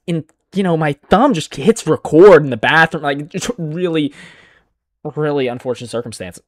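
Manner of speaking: playing the suspect, hammed-up; sarcastic fake excuse voice; mock innocent excuse. Mocking the suspect's cold excuse.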